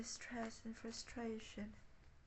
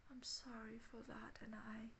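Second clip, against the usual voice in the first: whispered loving parent; 7 dB quieter than usual. Pretend. Voicing the loving imagined parent.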